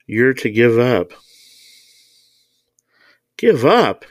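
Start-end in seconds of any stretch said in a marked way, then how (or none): 3.4-4.1 high, uncomprehending echoed question; blank repeating. A narrator's reading. Mister Thompson echoes the woman's demand, blankly. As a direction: repeat it as a baffled question, pitched up. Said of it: "he repeated blankly".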